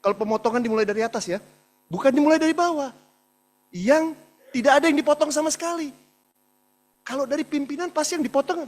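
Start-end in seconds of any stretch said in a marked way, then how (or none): 1.9-8.6 impassioned protest. Real, not acted. Insisting cuts start at top.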